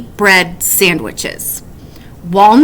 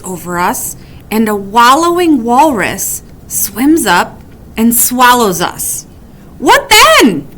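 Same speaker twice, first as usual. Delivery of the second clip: worried; 3 semitones higher than usual. Acted. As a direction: build panic toward the last question. Wombat's worried what-ifs.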